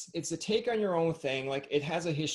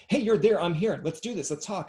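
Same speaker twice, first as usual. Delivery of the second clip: eager dog; 4 semitones higher, 5 dB louder than usual. Acted. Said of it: "FaceTime with a dog is like".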